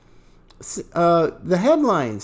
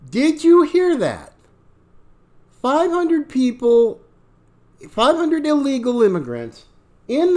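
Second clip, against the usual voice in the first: higher and louder challenge; emphatic; 4 semitones higher, 3 dB louder than usual. Real, not acted. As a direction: throw it at the audience. Reacting to the played clip.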